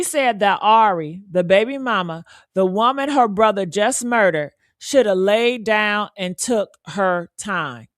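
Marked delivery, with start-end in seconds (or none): 4.8-7.9 slow, deliberate. Shown as a demonstration.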